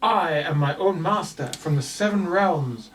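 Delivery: a lightly voiced, grand puppet; a puppet declaring its lineage. Puppet Augustus proclaims its titles to the shopkeeper. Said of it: "Augustus looks at her and says".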